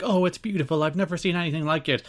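put-on delight; imitating delighted staff. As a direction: lightly act out an admiring staff member. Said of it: "all of the staff were like".

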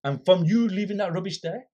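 reenacting an indignant telling-off; retold confrontation. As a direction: challenge him, voice lifting on the questions. Retells confronting the shopkeeper.

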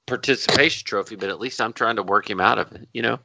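slightly slurred after beers; loose, slurred words; slurred speech. Real, not acted. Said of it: "You're starting to slur".

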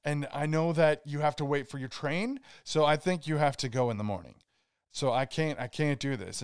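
mildly worked-up fake panic; badly faked touch of panic; acted panic attack. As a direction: stammer through a put-on panic, breaking off. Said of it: "So I start acting out this, like, panic attack".

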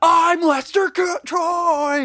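high, slow shouted Travolta impression; hammed-up Face/Off villain shout; John Travolta impression. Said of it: "my John Travolta".

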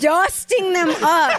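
slow, high, laughing disbelief; incredulous mocking repeat. Real, not acted. Mocking the odd phrase.

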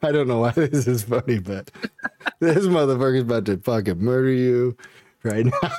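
giggling while quoting himself; half-laughing disbelief; laughing through it. Retold or imitated. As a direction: let the laugh break into the words. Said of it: "And I was like".

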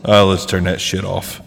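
big hall echo on the voice; crooning into a cavernous echo; digital echo. Real, not acted. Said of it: "I enabled the echo".

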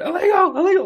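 high, loud mocking chant; mocking Trump voter. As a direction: sneer the word like a slogan. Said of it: "they're still going".

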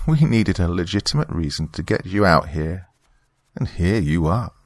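lightly voiced knowing villainess; a hint of a smug woman's voice; Margaret. Church member revealing the lure to her guest, lightly smug.

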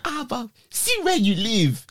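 put-on the boys catch him out with a Nigerian accent; the local boys quizzing him in a Nigerian accent. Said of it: "Nigerian dialect accent".

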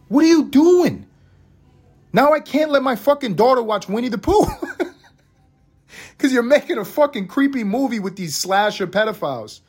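comic high-pitched disbelief through laughs; laughing outburst. Real, not acted. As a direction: yell at Hollywood while cracking up.

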